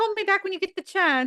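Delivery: put-on British accent. Retelling a voicemail from Jennifer Coolidge's character in her British accent. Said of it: "that's exactly how that accent sounds".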